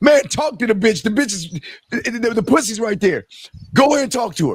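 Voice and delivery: put-on high yelling. Acting out a viewer screaming at a movie character, mock screaming at the TV. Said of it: "And you screaming at the T V".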